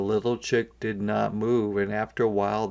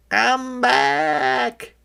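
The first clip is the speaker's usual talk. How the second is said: high, louder duckling call; quacking ducklings; 12 semitones higher, 5 dB louder than usual. A narrator's reading. Ducklings calling the chick back, high duck voice. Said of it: "quacked the ducklings".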